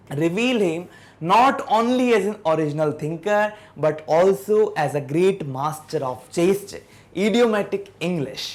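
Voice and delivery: reading the English passage slowly, word by word; slow textbook reading. Shown as a demonstration. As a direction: read it out carefully for the class. Teacher rereads textbook passage.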